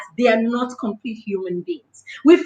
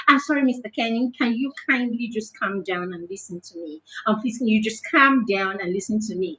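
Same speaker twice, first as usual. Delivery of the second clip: lower, softened, composed request; calm polite plea; 4 semitones lower, 6 dB quieter than usual. Acted. Child to an angry teacher, asking him to calm down, calm and polite. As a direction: politely ask someone to calm down, voice kept low.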